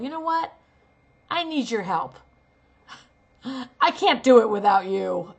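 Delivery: bitter mock plea with a laugh; sarcastic to someone who never helps; angry sarcasm. Shown as a demonstration. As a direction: laugh it off with contempt. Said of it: "to be sarcastic".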